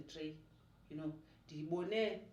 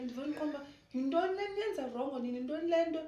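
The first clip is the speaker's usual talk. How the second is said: higher and louder, baffled at people; incredulous rant; 9 semitones higher, 6 dB louder, faster than usual. Retold or imitated. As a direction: demand to know what they're doing, incredulous. Baffled rant about people aging.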